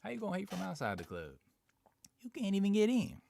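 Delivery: squeaky mocking disbelief; mock outrage. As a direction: send the taunt up in a high comic voice. Mocking repeat of a chat taunt.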